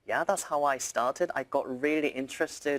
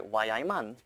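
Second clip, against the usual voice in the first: Geordie accent. Shown as a demonstration. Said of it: "Geordie in Newcastle, people say".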